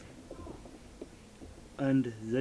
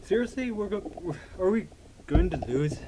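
exasperated; 4 semitones higher than usual. Real, not acted. Game loss frustration.

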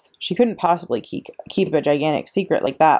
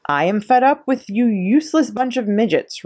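roared; 6 semitones higher than usual. A narrator's reading. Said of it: "roared the Trunchbull".

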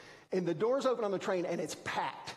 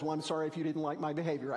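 fake apology; much faster than usual. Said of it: "it wasn't even one of those".

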